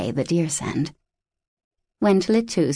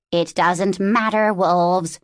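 raspy raven; slower than usual. Acted. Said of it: "Tlittu rasped".

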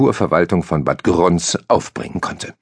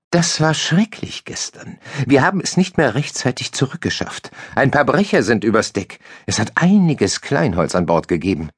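blonde sailor woman; 6 semitones higher than usual. A narrator's reading. Woman telling Jensen about the storm, high and dramatic. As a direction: lament the stormy night.

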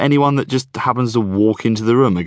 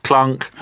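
mock clunk; 5 semitones higher than usual. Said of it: "All right, I'll stop doing it now".

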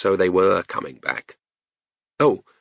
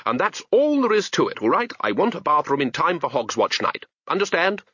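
put-on high, firm old wizard; insistent wizard demanding agreement; firmly; 5 semitones higher than usual. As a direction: close the argument. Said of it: "said Ridcully firmly".

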